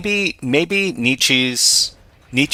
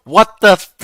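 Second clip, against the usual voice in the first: surprised; 9 semitones higher, 3 dB louder than usual. Real, not acted. Shocked by the chat message.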